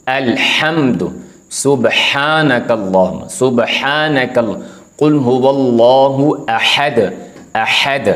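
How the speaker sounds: slow recitation with a clear हा; recitation examples. Shown as a demonstration. Teacher reciting Quran words to show हा. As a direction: recite अल्हम्दु slowly, leaning on हा. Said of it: "ये हा की आवाज़ आपको समझ आ गई".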